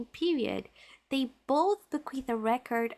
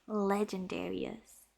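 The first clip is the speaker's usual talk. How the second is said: savoring an epic word; 4 semitones lower, 5 dB quieter, slower than usual. Shown as a demonstration. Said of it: "what does that sound so epic?".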